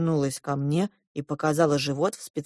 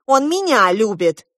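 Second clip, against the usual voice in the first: raised, louder insistence; crying out; 4 semitones higher, 6 dB louder than usual. A narrator's reading. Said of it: "крикнула Диана". (громко настаивая)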